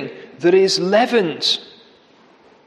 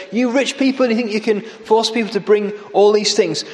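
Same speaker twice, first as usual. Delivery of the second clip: mocking; 3 semitones higher than usual. Amos mocking the rich people, scornful. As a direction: sneer at the rich. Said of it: "he's just mocking them".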